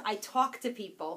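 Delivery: Long Island vowel on "talk"; casual Long Island accent. Shown as a demonstration. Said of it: "We all say it like that".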